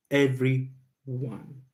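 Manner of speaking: "Everyone" drawn out very slowly; emphatic EVERYONE. Real, not acted. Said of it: "I'm putting an emphasis on that word".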